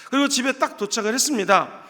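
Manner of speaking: usual speaking voice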